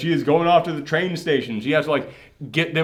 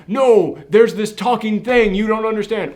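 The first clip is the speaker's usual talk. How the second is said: higher, louder insistence; mock frantic pleading; 6 semitones higher, 4 dB louder than usual. Movie character insists to a doubter, mock frantic. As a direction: plead as if nobody believes you.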